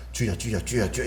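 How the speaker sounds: rapid-fire 주여, short and clipped one after another; quick repeated calling. Shown as a demonstration. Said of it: "주여를 많이 부르려면".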